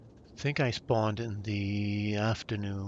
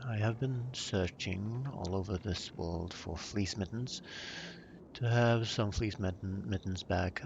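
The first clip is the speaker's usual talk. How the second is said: a dry, mock-formal British accent; dry British accent, lightly put on. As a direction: play the stiff British gentleman, deadpan. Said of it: "switch back to my very dry British accent".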